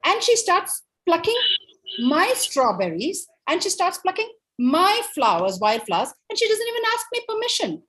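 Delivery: high, emphatic mock protest; indignant wolf. Wolf protests the girl trespassing on his property, indignant. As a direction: argue your case, leaning hard on each grievance.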